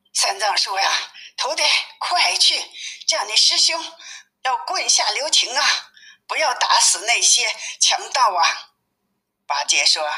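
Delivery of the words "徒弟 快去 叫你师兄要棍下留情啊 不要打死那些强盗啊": lightly voiced worried master, pitched high; higher-pitched pleading, easing down towards the end; urgent plea. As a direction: send the disciple off urgently to stop a killing. Master urgently pleads to spare robbers.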